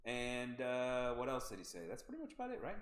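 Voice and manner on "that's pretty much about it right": mimicking the coach.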